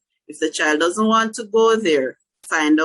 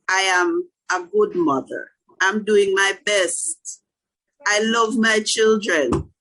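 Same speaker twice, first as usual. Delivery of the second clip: self-affirmation. Shown as a demonstration. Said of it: "you have to talk to yourself".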